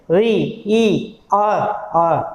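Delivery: "री", then its vowels "ई" and "आ" singly; vowels isolated. Shown as a demonstration. Teacher finding vowel sounds in real, vowels isolated. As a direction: say "री, ई, आ, आ" as separate sounds. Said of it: "तो ई और आ बार बार बोल के".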